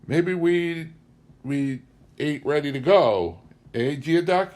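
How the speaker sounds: put-on high, loud slurring drunk voice; drunk defiance. Drunk stranger taunts the wife, refusing to leave. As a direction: drawl it out, drunk and daring.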